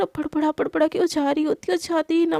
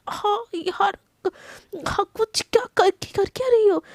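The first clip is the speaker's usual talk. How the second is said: pitched up, yelping at the sudden pain; high pained yelp; 5 semitones higher, slower than usual. Acted. Husband yelps at wife flipping him over, high and pained. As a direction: squeal out what she's doing.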